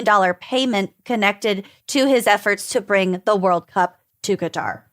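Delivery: measured newsreader delivery; news anchor voice. Acted. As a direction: read it like an evening news anchor. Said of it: "I love when you use your news anchor voice".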